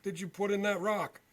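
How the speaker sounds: retold scream. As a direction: throw the accusation like he's shouting across the lot. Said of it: "he's screaming".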